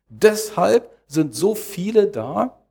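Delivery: "Deshalb" set out high and slow; stress on DESHALB. Real, not acted. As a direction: hammer "Deshalb" as the key word, unhurried. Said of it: "darauf liegt die Betonung".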